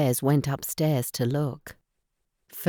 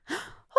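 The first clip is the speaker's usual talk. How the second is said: sharp gasp; 15 dB quieter than usual. A narrator's reading. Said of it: "cried Goldilocks".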